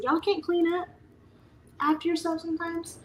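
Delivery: high, incredulous scolding; exasperated. Retold or imitated. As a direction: ask it like you've had enough. Exasperated at kids' mess.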